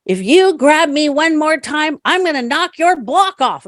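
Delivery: high, slow mock threat; playing her mother squaring up; mom threatening. Mother threatening the other resident, high mock threat. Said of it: "my mom goes".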